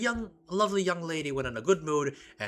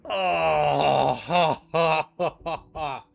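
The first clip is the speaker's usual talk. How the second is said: pained laughter; much slower than usual. Real, not acted. Laughing after hurting knee.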